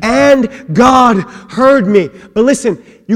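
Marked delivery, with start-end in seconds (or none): 0.0-2.1 slow, sure "And God heard me"; with confidence. Shown as a demonstration. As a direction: lean on every word, certain of it. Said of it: "And then with confidence".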